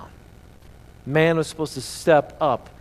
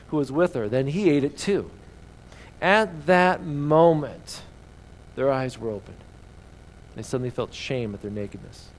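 reading the Bible passage aloud to the congregation; reading scripture to the church. Acted. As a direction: give the verses a storyteller's lift.

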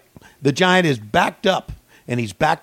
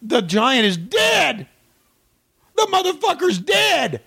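high, slow hammed-up shout; mock excited announcement; 11 semitones higher, slower than usual. Hammed-up announcer shouting to viewers that the giant is dead. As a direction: overplay the tragic news like a wrestling announcer.

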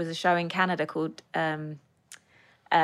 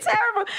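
terrible, hit hard and pitched up; emphatic terrible. Real, not acted. Guest on her worst auditions, stressing terrible.

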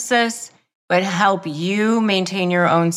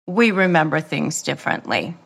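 calm, no emotion; 4 semitones lower, faster than usual. Shown as a demonstration. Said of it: "you don't need to say it in a tone".

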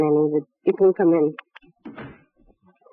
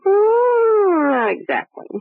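breaking into a sob, then words through tears; a tearful, cornered denial; crying; 12 semitones higher, much slower than usual. Acted. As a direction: let the tears catch the voice as she answers. Suspect breaks down under questioning.

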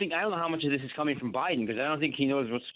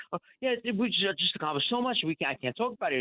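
mocking boast; 4 semitones higher than usual. Caller mocks boastful official.

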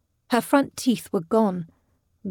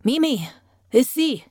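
summoning someone from another room, higher pitch; short, high-pitched summons; calling out; 6 semitones higher than usual. A narrator's reading. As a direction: call the maid in with a lifted voice. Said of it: "he called out".

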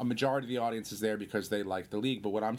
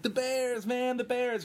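much higher, put-on enthusiastic cry; imitated clueless castmate; 13 semitones higher, slower than usual. Castmate naming the wrong team to fans, high mock cheer. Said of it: "he just knows that the show takes place in Chicago".

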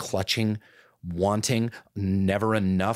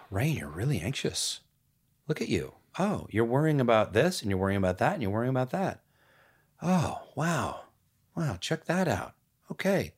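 gentle self-talk; 2 semitones higher than usual. Pretend. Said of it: "take a deep breath".

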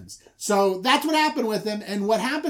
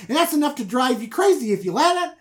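high, loud impassioned rant; ranting Jacob; 8 semitones higher, 7 dB louder than usual. Retold or imitated. Jacob ranting at Laban about his hard work, loud. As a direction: build the grievance to a shout.

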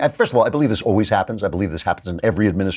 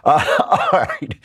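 laughing; 9 semitones higher than usual. Real, not acted.

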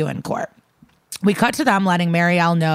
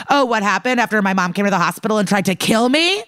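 quick, higher-pitched sassy retort; mock bitchy teen; 4 semitones higher, faster than usual. Bitchy teen retelling how mom tried to kill her, mock sassy. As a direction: imitate a sassy teenager, fast and raised in pitch. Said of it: "like, a bitchy teen".

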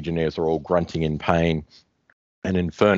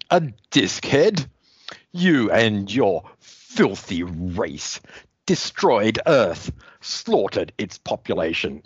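Grimbor villain; slower than usual. Acted. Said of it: "He goes".

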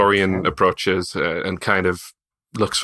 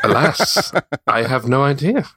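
higher, amused echo with a laugh; mock lament; 4 semitones higher than usual. Player echoing the game master's bad news, mock lament. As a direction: repeat it back in mock dismay, lifting at the end.

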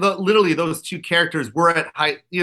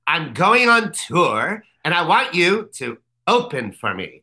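Lovitz's real voice; slower than usual. Retold or imitated. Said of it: "He really talks like this".

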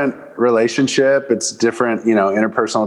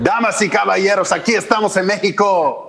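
booming ringside announcer, high and proud; lucha libre announcer; 8 semitones higher than usual. Acted. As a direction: announce it like a wrestling show. Host greeting in Spanish.

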